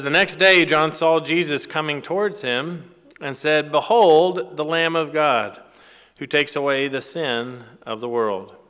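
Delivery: emphatic Bible reading, easing at the end; scripture reading. Acted. Preacher reads John greeting Jesus, emphatic scripture reading. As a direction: proclaim the verse, punching the exclamation.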